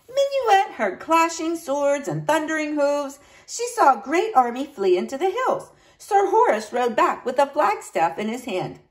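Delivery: lively storybook reading; story narration. A narrator's reading. Teacher reading a knight's tale to children, animated narration. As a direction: read it expressively for children.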